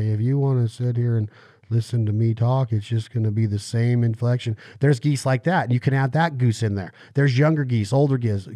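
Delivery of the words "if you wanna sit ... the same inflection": a hint of monotone old man; Hot Wheels old guy. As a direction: keep one flat inflection like the ad guy. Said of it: "talk like the old guy in the Hot Wheels commercials".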